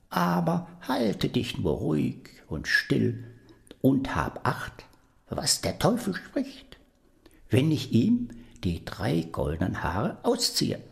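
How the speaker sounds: put-on high, hushed warning from an old woman; old woman whispering. Old woman warns the boy to keep still, whispering. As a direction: whisper urgently so the devil cannot hear.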